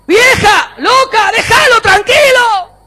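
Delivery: high, full-force yell; scolding shout. Acted. Preacher scolds a controlling wife to back off, shouting. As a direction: holler it, stretching the last words.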